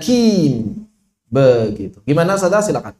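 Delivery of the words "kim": kim with a plain k like kaf, said slowly; wrong kim. Shown as a demonstration. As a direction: show the mistake kim, with no qaf. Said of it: "Juga bukan dibaca seperti kaf".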